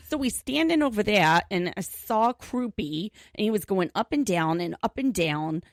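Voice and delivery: imitating a New York neighbour lightly; mild New York accent, retold neighbour. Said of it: "he's got this New York accent".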